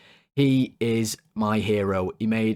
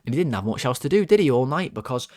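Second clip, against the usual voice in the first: ordinary talk, nothing marked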